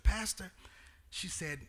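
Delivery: lightly voiced elderly church mother; quoting the mother. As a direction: gently voice the old mother saying Pastor.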